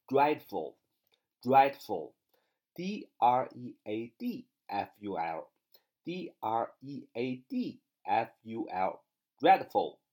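letters spaced out, very slow; slow spelling drill. Shown as a demonstration. Teacher spelling dreadful for students, slowly and clearly. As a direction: dictate each letter carefully. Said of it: "第三个单词".

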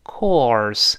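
"course" with an o sound, then the tongue curled for r; drawn "o" gliding into r in "course". Shown as a demonstration. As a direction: round the o, then hook the r in "course". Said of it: "先发哦，再勾舌".

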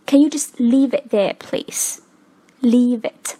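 "leave it" said as lea-vit; linked in a sentence. Shown as a demonstration. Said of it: "连读之后就变成了".

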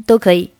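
"an" for and, with no d; reduced and. Shown as a demonstration. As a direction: say "an" with a clear vowel, dropping the d. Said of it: "and还是读成an".

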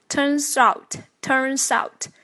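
turns out as "turn-zout"; linked pronunciation. Shown as a demonstration. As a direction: link turns into out, drawn out. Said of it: "连读".

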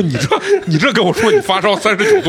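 imitating mom not believing her fever; mock mom disbelief. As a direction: laugh out mom's disbelief. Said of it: "然后我妈说".

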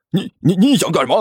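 stammering alarmed monk; rattled, stuttering protest; panicked. Acted. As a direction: stumble over the words in a fluster. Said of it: "那和尚顿时急了".

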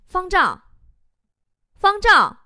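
teacher calling out a name, high; roll-call shout. Acted. Teacher takes roll in first-year class, calling out. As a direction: call the name and wait for an answer. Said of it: "老师点名喊了几声".

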